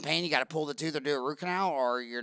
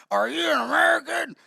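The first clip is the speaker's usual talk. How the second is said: mock challenge; 9 semitones higher, 4 dB louder than usual. Bar stranger confronts him.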